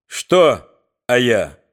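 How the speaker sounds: slow, loud challenging question; belligerent retort. Acted. Thug answering Sashka.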